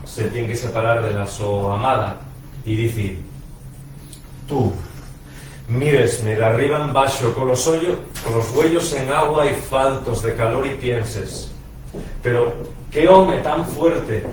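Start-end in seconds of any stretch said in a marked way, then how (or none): 4.5-14.2 measured, emphatic verse delivery; poem recitation. Acted. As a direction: recite it as Orion addressing his beloved. Recites own Orion poem.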